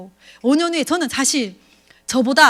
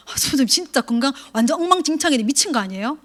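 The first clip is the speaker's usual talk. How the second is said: mock complaint call. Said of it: "막 이렇게 얘기해".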